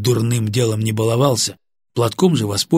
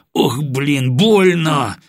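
cry of pain; 5 semitones higher, 4 dB louder, much slower than usual. Acted. Captain kicked, cries in pain.

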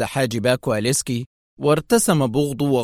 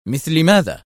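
keen, raised-pitch question; tense interest; 4 semitones higher, 4 dB louder than usual. A narrator's reading. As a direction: ask with anxious interest. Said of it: "سأله المدير في اهتمام متوتر".

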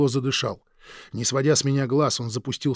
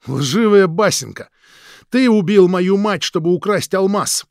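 much louder, higher, slow enraged outburst; furious shout; 7 semitones higher, 9 dB louder than usual. Acted. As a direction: spit the accusation out in rage. Krik shouts the accusation.

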